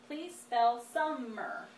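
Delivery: put-on slow dictation to a child; teacher dictating a word. Shown as a demonstration. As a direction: give the word clearly and slowly. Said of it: "And last word".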